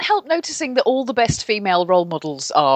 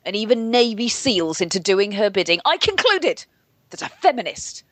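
rigid-shouldered resentment. Retold or imitated. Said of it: "rigid-shouldered resentment".

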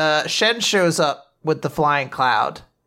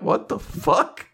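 slow, stunned quote through laughter; laughing; 4 semitones higher, 3 dB quieter, slower than usual. Retold or imitated. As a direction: draw it out while cracking up. Quoting the joke while still laughing.

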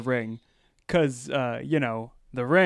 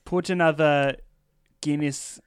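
mock Irish accent. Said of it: "Yep, that's it. No, keep going".

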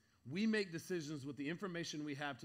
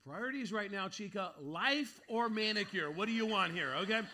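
mock lecture; 4 semitones higher, 5 dB louder than usual. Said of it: "I'm like".

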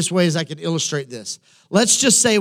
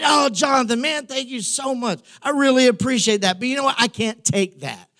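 mock gracious refusal; 4 semitones higher than usual. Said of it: "I look at Jonathan and I say".

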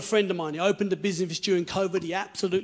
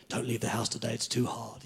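anxious inner voice; 7 semitones lower, 5 dB quieter than usual. Retold or imitated. Voice of anxiety quoted.

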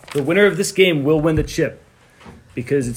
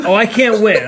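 laughing; 6 semitones higher, 8 dB louder than usual. Real, not acted. Laughs at three-point round.

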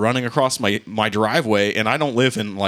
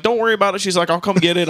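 mock teen daughter; 9 semitones higher, 3 dB louder than usual. Teenage daughter quoted.

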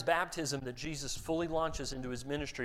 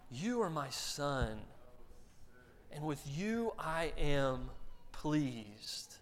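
tender; 4 dB quieter, much slower than usual. Acted. God's voice repeated, slow.

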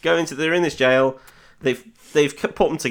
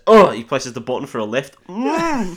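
mock thrill; 3 semitones higher, 5 dB louder than usual. Mocking Bond's bland action.

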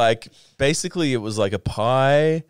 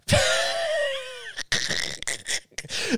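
very high squealing laugh; real high shriek of laughter at the absurd shop; 5 dB quieter than usual. Real, not acted. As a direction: burst into a shrieking cackle. Shrieking laugh at shopkeeper story.

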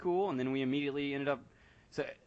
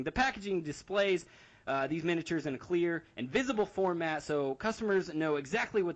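put-on old radio announcer; 3 semitones higher than usual. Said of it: "obnoxious nineteen thirties radio announcer voice".

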